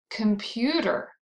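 "Computer" with the middle syllable stronger; stress on second syllable. Shown as a demonstration. Teacher introducing a three-syllable word, middle-syllable stress on "Computer". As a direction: lean on the "pu" in "Computer". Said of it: "it's the second syllable".

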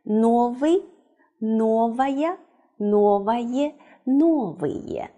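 each ending spelled out clearly, Новый, новая, новое, новые; reading the forms aloud. Shown as a demonstration. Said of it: "它的第一格全部念一遍".

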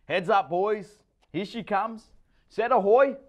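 high, loud call across the water. A narrator's reading. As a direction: shout the set coming in. Calling out a wave set.

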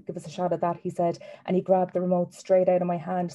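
first-person story reading, evenly paced; story narration. Acted. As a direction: read a novel aloud in a lively storyteller's rhythm. Author reads novel aloud.

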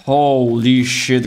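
slow, drawn-out relieved gasp; relieved exclamation. Real, not acted. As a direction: let the relief pour out slowly. Relief after escaping.

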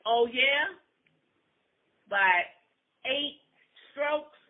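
loud, high, frustrated jab; mock him, frustrated. Wife mocking her husband, a loud frustrated jab.

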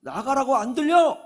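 high-pitched retold demand; rude informal order. Man to woman who keeps phoning, rude impatient demand. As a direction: imitate a passenger losing patience. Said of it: "대뜸 반말하는 거예요".

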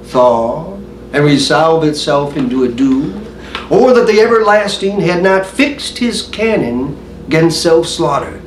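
measured, brooding stage monologue; Hamlet soliloquy recitation. Acted.

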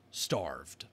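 hushed whisper. A narrator's reading. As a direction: breathe it out, barely voiced. Narrator whispers a grim word.

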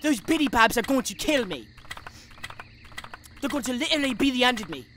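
put-on English accent. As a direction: do a mock British accent, deliberately enunciated. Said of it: "Slap a like for my English accent".

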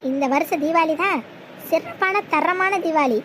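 slow, savouring each word of the boast; gloating slow drawl. Acted. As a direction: draw it out like a smug film villain. Savouring a film catchphrase slowly.

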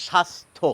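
স্বাস্থ্য said as shastho, no b; স্বাস্থ্য: shas-tho. Shown as a demonstration. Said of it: "আমরা বলি".

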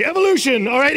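sarcastic loud imitation of a skeptic; mock screaming. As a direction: bark the word evolution as a brush-off. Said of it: "just screaming evolution into the void".

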